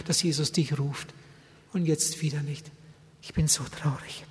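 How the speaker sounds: a touch of tearful sorrow; quiet sorrow. Retold or imitated. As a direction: fade out in grief. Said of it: "hat einfach geweint".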